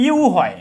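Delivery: ইউ said as a clear "yoo"; teacher stressing the "yoo" sound in ইউ; letter-sound demo. Shown as a demonstration. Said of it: "ইউ এর উচ্চারণ যদি কি হয়?".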